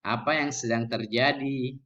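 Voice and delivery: calm, unraised questioning voice; low-toned question. Shown as a demonstration. Teacher showing how a question is normally asked, low-toned. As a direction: ask it evenly, without raising the voice. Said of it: "nada suara rendah bertanya".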